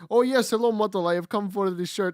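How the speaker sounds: lightly voiced Russian accent; a hint of a Russian accent, playful. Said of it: "I came in in that Russian accent".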